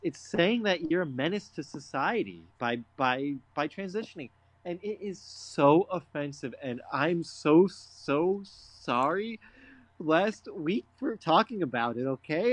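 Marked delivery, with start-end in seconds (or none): 4.7-12.5 slow, drawn-out, hammed-up sorry; mock-tearful apology. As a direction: stretch out the so sorry. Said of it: "I can tell you're upset".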